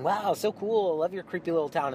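chirpy, a little too cheerful; bubbly host. Retold or imitated.

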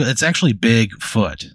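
"Big Foot" as two separate words; separated words. Shown as a demonstration. Game master corrects how the name is said, "Big Foot" split in two. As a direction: say "Big Foot" with weight on each word. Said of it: "That's what a lot of people don't know".

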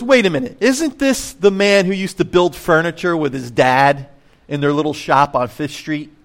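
playing small-town gossip, lightly; gossipy townspeople. Pastor voicing the townspeople for his congregation, lightly gossipy.

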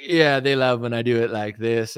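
lightly imitated politician's self-pleased aside; a hint of the rally showman; Donald Trump. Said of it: "When I listen to Trump talk".

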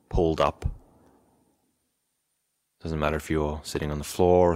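calm, even instructions with long pauses; guided meditation. Real, not acted. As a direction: settle them gently, leaving space between phrases. Leads into a meditation session.

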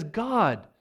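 high, loud and fast exasperated plea; loud exasperated outburst. Retold or imitated. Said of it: "he's exasperated".

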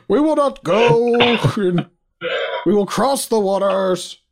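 put-on horrible British accent, high and drawn out; hammed-up British wartime orator; Winston Churchill. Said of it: "horrible British accent".

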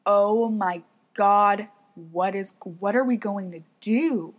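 drawn-out, mildly panicked exclamation; retold freak-out. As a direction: stretch the opening in mock dismay. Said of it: "We're freaking out".

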